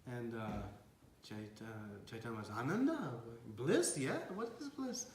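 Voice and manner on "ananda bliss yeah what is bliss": high, naive questioning; puzzled questioning. Retold or imitated. Chaitanya wonders what the sannyasi is offering, puzzled. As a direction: ask in innocent confusion.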